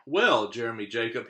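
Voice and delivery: loud pirate captain voice. Acted. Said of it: "he said".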